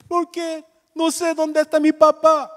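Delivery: put-on high, slow voice of a weeping little girl; crying little girl. Pastor voicing the crying girl on TV, high and tearful. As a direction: plead like a small child who lost her dad.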